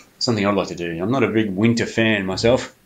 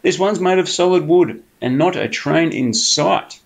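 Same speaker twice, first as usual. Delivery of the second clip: higher, coaxing sly fox voice; 6 semitones higher than usual. Acted. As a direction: sweet-talk the bear like a cunning fox. Fox coaxes Bear.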